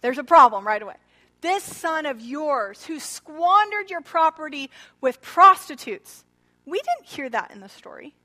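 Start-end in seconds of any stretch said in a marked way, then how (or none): 1.4-6.2 resentful accusation. Retold or imitated. Elder son's bitter accusation.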